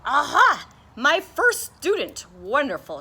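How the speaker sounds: high, loud chirpy little bird; sing-song bird. Acted. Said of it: "she sang".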